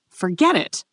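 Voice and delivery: weary, dismissive brush-off; tired. A narrator's reading. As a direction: give up with mild tiredness. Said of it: "Lucia said tiredly".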